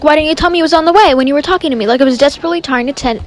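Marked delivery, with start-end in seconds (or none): 0.0-1.9 faster and louder, an exasperated demand; retold angry outburst. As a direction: fire the question back at the dispatcher, half-mock indignant. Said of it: "so I'm pissed".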